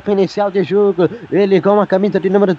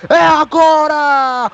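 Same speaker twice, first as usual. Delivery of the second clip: excited build-up; 4 semitones higher than usual. Real, not acted. Goal chance on radio.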